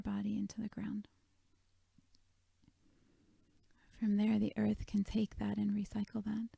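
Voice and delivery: gentle meditation guide with long pauses; guided meditation. Real, not acted. Leads a guided meditation on sadness.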